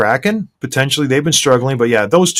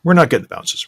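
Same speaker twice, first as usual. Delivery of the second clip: mock excuse; 4 semitones higher than usual. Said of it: "Don't step to the podium and think".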